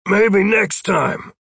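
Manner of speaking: slow, high-pitched call; calling back. A narrator's reading. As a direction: holler it back across a distance. Roy calls back up to Jeff.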